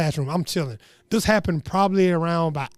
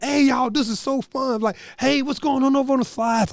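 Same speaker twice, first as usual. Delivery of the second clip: calling out playfully; 5 semitones higher than usual. Retold or imitated. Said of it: "I'm not, like yelling at 'em".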